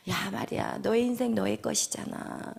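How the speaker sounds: soft, coaxing tempter; hushed mock sympathy; feigned understanding. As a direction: murmur it like an inner voice that takes their side. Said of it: "엄청나게 나를 이해하는 것 같이".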